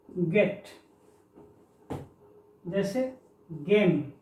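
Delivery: गेन, गेट, गेम, गैंग, गैप said with a hard ग; hard G words. Shown as a demonstration. Teacher lists hard G words for students, carefully. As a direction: model each word with a clear hard g. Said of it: "ग के रूप में देखें".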